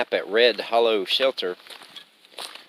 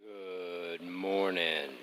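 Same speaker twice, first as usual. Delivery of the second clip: sleepy morning hush; 5 semitones lower, 12 dB quieter, much slower than usual. Real, not acted. Early morning greeting on the trail.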